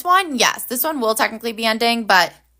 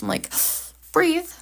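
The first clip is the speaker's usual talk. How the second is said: gasp for air; 8 semitones higher than usual. Real, not acted. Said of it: "out of breath from this".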